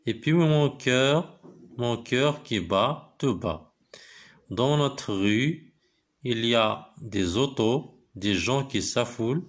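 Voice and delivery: slow, measured poem reading; slow classroom recitation with pauses between phrases. Acted. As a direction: recite line by line, drawing out the words. Reads the poem aloud to pupils.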